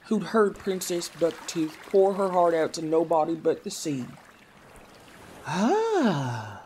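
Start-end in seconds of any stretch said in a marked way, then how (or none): 5.4-6.6 creature gasp. Acted. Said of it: "voice sounded like sea-worn glass".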